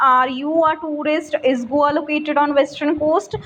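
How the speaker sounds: yes-no questions with a slight lift at "tourist" and "coast"; lightly rising question tune on "coast"; rising intonation. Shown as a demonstration. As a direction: ask both, nudging the last word up. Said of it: "this rising intonation".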